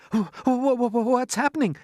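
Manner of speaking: high, stuttering alarm; stammering fright. Acted. James wakes to the lurching room, frightened stammer. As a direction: stumble on the words in panic. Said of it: "cried James".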